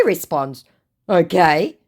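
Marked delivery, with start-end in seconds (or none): 1.1-1.8 high, loud, slow mock yelling. Woman mimicking the scammer's all-caps message, as a high mock yell. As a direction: shout it like a clueless scammer. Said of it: "I don't know why he was yelling".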